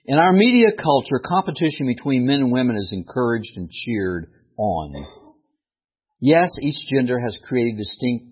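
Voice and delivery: declamatory read-aloud of a written piece. Acted. Preacher reading his own piece to the congregation, emphatic read-aloud. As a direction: read it out emphatically, rising on each opening.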